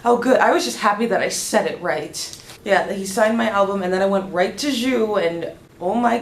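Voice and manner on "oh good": relieved. Retold or imitated. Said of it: "and I'm like".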